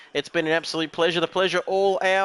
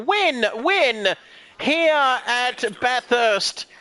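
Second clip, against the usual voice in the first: building play-by-play, stretching out the finish; live race commentary; 3 semitones higher than usual. Real, not acted. Commentator calls Albert out of the final corner to win, live race commentary.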